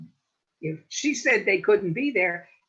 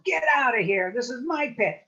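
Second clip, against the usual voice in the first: put-on loud, higher, furious old lady; shouting at trespassing snakes; angry scream; 3 semitones higher, 3 dB louder than usual. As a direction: chase the snakes off your land. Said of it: "She screamed at 'em".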